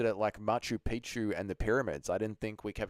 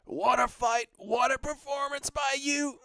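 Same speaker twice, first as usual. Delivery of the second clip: put-on higher, slow New Zealand accent praise; Dan Hooker accent; 13 semitones higher than usual. Streamer doing a post-fight interview as a Kiwi fighter, New Zealand accent. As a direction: gush like a Kiwi fighter after the bout. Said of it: "Can you do a Dan Hooker New Zealand accent?".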